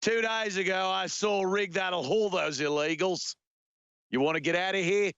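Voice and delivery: Aussie movie-hero impression; Australian accent. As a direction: quote the film in a put-on Australian accent. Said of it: "Road Warrior, anyone?".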